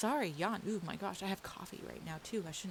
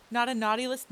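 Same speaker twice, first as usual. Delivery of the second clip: laughing denial; 4 semitones higher, 9 dB louder, faster than usual. Real, not acted. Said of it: "and yes".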